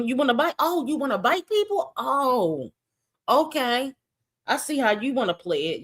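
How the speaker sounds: put-on high, taunting warning to a biting kid; mock threat. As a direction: dare him to try it. Scolding a biting child.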